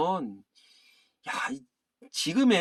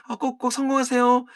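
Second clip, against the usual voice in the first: daughter's voice; 7 semitones higher, 4 dB louder than usual. Acted. Reading the daughter's line.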